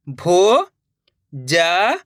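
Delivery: भोजन stretched very slowly, syllable by syllable; drawn-out syllables. Shown as a demonstration. Teacher sounding out भोजन for pupils, very slowly. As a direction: pull भोजन apart sound by sound. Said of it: "अब आगे देखिए".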